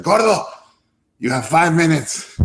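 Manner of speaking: high, curt mock ultimatum; lightly voiced impatient boss; a hint of a teasing mentor setting a deadline; imitating Guillermo. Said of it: "So he's like".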